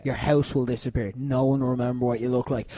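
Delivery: a soft, deadly calm promise; calm cold threat. Retold or imitated. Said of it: "just calmly be like".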